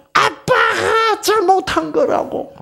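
high, slow wail on 아빠가; child's wailing accusation. Retold or imitated. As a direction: wail it out like a crying daughter. Daughter crying, beating chest. (우는 딸의 울부짖음)

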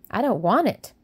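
a touch of a petulant no; sulky refusal. Acted. Mary refusing her breakfast, mildly sulky. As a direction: push the food away with the words. Mary pushing away the cereal.

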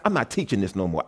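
a low, quiet vow to quit; quiet resolve. Retold or imitated. Preacher recalls quitting after class, said low and quiet. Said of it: "I said after class".

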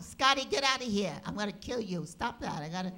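a touch of mock fury at the dog; scolding the dog. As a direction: shoo the dog off, annoyed. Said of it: "she thought it was the dog".

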